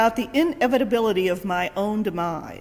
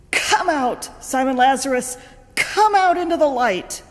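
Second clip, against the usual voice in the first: raised, commanding call into the tomb; 5 semitones higher, 5 dB louder than usual. Retold or imitated. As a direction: call him out of the grave. Jesus calls Lazarus from tomb.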